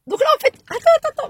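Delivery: high laughing attends, cracking up; can't hold back the giggles; breaking into laughter. Real, not acted. Stuck by the road, she laughs at her own rant. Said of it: "vous pensez que je rigole".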